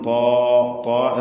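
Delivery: ത്വാ thick and full, long dark vowel; heavy emphatic ta. Shown as a demonstration. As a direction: make ത്വാ heavy and rounded. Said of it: "തഫ്ഖീമാണ്".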